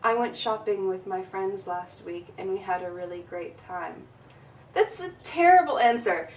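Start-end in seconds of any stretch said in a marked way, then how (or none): 0.0-4.1 flat, low, bored monotone. Shown as a demonstration. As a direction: drone it with no tune at all. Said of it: "Don't say".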